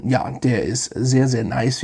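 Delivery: sehr, sehr nice with the weight landing on nice; his catchphrase with nice stressed. Shown as a demonstration. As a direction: lean into the word nice at the end. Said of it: "Da liegt die Betonung auf nice".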